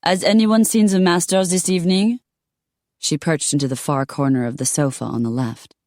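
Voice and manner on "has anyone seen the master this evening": a hint of a haughty lady, higher; lightly voiced disdainful lady. Voiced lady character asks.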